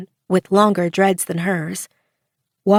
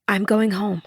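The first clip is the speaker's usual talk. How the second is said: forced conviction. A narrator's reading. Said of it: "attempting to use a more convincing voice".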